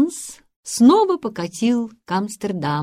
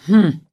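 snort; 8 dB louder than usual. A narrator's reading. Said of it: "фыркнул доктор".

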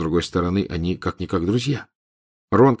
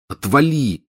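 annoyed; 6 semitones higher, slower than usual. Acted. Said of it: "досадливо ответил Рон".

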